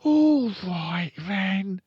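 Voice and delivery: put-on loud, high boy's refusal; high-pitched, loud boy character; refusing Fred. A narrator's reading. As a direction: refuse as an indignant small boy. Fred gives in.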